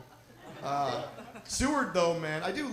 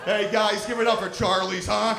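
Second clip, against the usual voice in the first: crowd call; 5 semitones higher, 9 dB louder than usual. Real, not acted. Calling crowd to applaud.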